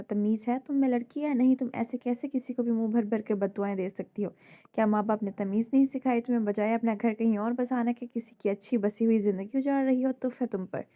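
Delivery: loud, furious telling-off; roaring scolding. Acted. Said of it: "महर के धारने पर".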